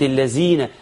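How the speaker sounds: الذين as "illazeena", with plain z; zay error. Shown as a demonstration. Teacher says it became wrong, الذين with z. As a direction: put a z into الذين. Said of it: "وحط زاي".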